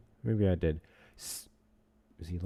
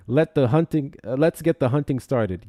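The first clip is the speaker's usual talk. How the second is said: hype announcement; 4 semitones higher, 8 dB louder than usual. Real, not acted. Announcing the hunt.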